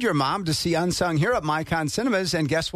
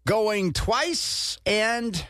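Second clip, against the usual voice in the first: auctioneer; 5 semitones higher, much slower than usual. Pretend. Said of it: "I'm gonna count my, my auctioneer style here".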